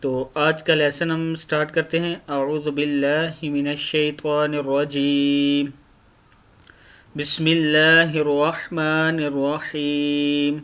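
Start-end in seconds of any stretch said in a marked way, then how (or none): 2.3-10.6 measured, drawn-out recitation; Quranic recitation. Shown as a demonstration. Teacher opening a Quran lesson, measured recitation. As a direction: recite with long held vowels.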